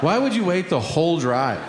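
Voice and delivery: high, fast, fed-up rant; exasperated dad. Retold or imitated. Dad to his son at school drop-off, high and fast in exasperation. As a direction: rattle it off like a dad at the end of his rope. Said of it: "And I'm like".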